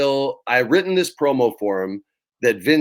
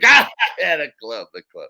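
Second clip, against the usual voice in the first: fawning laugh-talk that dies off; mock laughing reply; 3 semitones higher than usual. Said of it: "he laughs at everything".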